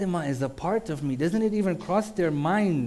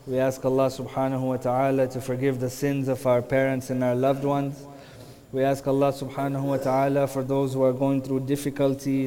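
prayer. Acted. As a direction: pray humbly over the gathering. Closing supplication for congregation.

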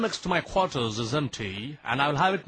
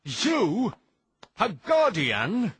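high, incredulous retort in short bursts; indignant, disbelieving challenge; scornful refusal; 3 semitones higher, slower than usual. Acted. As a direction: reject the rival with disbelief, drawing out the last words. Scornful rejection of rival's claim.

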